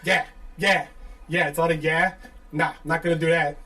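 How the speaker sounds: wannabe tough guy. Retold or imitated. Mimicking Jersey callers on the phone, mock tough. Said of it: "every wannabe tough guy on the phone".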